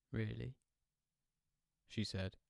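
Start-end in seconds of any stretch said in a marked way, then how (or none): 0.1-0.5 sultry. Acted.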